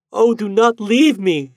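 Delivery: high, slow pleading woman's voice; desperate cry. A narrator's reading. Lady begging the departing ghost, high and desperate. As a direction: beg him not to go, voice lifted high. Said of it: "she cried".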